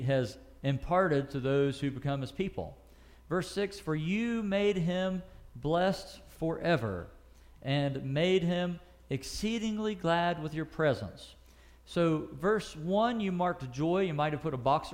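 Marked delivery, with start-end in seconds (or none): 3.8-11.3 slow, deliberate Bible reading; solemn slow reading of the psalm; scripture reading. Acted. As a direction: read the verse slowly and reverently.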